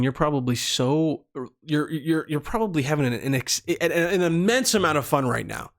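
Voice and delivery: halting stutter over words. Real, not acted. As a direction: stumble and repeat words. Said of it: "I was stuttering really, really hard".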